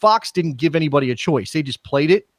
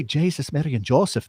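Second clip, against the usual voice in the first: lightly put-on Irish accent; quick demo of an Irish accent; 4 dB quieter than usual. Shown as a demonstration. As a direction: use it as a hook into Irish. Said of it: "That's how you get into Irish".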